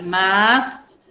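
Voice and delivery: "mas" set apart as its own syllable. Shown as a demonstration. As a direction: dictate "mas" alone, drawn out.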